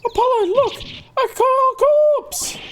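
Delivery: put-on a girl shrieking at a body; alarmed girl. Girl crying out to Apollo, high and alarmed.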